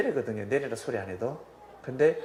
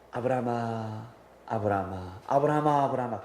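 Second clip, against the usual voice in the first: mildly hurried repeated calling of the name; urgent call; 3 semitones lower than usual. Acted. Angel urgently calling Abraham to stop, mildly hurried. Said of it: "급하게 음성이 들렸습니다".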